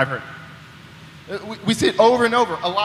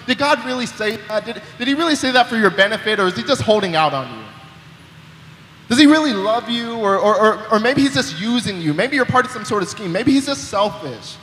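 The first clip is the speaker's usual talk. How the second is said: tempter's voice; 3 semitones higher than usual. Retold or imitated. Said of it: "That's what that voice is".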